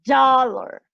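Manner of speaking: "Dollar" with a strong D and swallowed last vowel; English "Dollar", second vowel a schwa; English schwa ending. Shown as a demonstration. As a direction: draw out the start of "Dollar", reduce the end. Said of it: "el sonido schwa es casi como si esa desapareciera".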